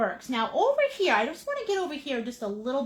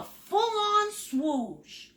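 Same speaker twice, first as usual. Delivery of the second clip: swoosh noise; 7 semitones higher, much slower than usual. Shown as a demonstration. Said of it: "Make that noise".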